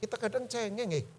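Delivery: soft, hushed admiring apology; a hushed, humbled apology to the widow; quiet retold apology. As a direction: say it softly as if moved. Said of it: "saya kemudian berkata".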